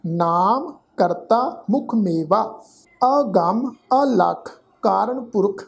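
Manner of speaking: slow, deliberate chanting recitation; scripture recitation. Shown as a demonstration. Teacher recites Gurbani slowly to students. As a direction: lay out every syllable carefully.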